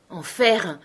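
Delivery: understated curse at the bad news; mild angry cry. Henri learning a dog has vanished, a mild angry cry. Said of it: "cria Henri avec colère".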